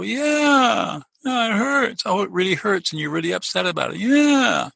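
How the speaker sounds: put-on gentle, crooning validation for a crying toddler; soothing a child. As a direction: sound like you're comforting a hurt little boy. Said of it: "I would say as a little boy".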